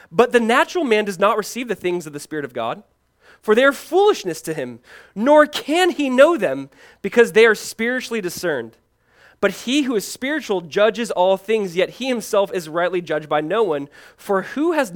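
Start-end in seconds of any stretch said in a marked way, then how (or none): 0.1-11.8 higher, louder preaching voice; emphatic reading from the pulpit; scripture reading. Acted. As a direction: proclaim the verse with lifted pitch. Reads scripture aloud with force.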